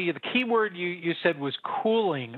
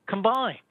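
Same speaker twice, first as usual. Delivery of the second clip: Combined said again, a touch higher and firmer; emphatic repeat; 4 semitones higher than usual. Shown as a demonstration. Economist repeating a point to the host, emphatic. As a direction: land hard on Combined.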